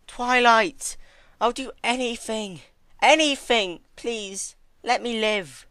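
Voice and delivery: high, loud, tearful pleading; desperate begging. Acted. Celestia begging Twilight to spare her, desperate. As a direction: beg for your life through tears.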